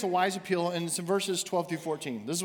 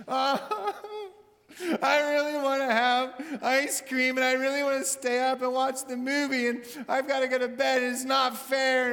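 put-on whining child; 5 semitones higher than usual. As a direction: whine it like a tired kid denied ice cream. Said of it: "it might sound something like this".

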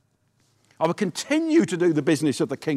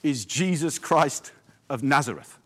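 proclaimed; 2 semitones lower than usual. Shown as a demonstration. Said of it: "I want to say to you".

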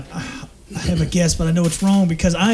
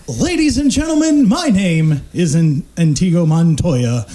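impression; 8 semitones higher, slower than usual. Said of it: "with the impression that I got".

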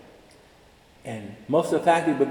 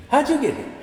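high, incredulous question; mock puzzled asker; 10 semitones higher than usual. Colleagues quizzing Dean, high and incredulous. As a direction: voice the confused colleague.

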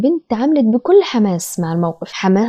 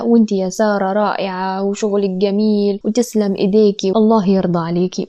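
praising mother. Acted. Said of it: "راحت تمدح وتثني".

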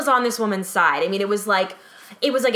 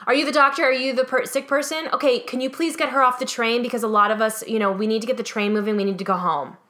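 pushy demand; 3 semitones higher than usual. Retold or imitated. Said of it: "she's like".

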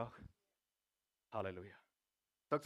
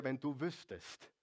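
quiet; 6 dB quieter than usual. Acted. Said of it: "und sagte zu ihr".

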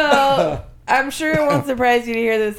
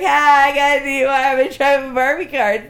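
put-on ditzy girl voice; 4 semitones higher, 5 dB louder than usual. Sorority girl quoted, giddy.

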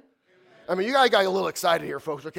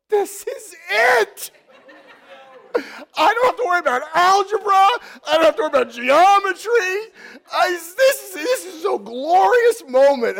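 much higher, much louder, half crying with joy; overjoyed teen shouting that this is the moment; ecstatic outburst; 14 semitones higher, 10 dB louder than usual. Retold or imitated. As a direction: burst out like the sky just opened. Retelling his teenage rapture thought.

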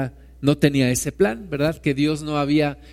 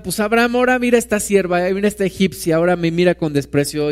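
indignant complaint; faster than usual. Acted. Sarai complaining to Abraham.

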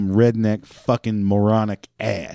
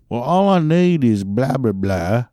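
pitched-up insistent caller; mock pleading customer. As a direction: imitate a caller who won't listen. Mocks insistent caller against clerk.

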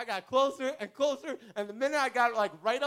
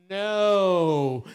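firm loud no; 2 semitones lower, 10 dB louder than usual. Retold or imitated. Friend coaching him to refuse.

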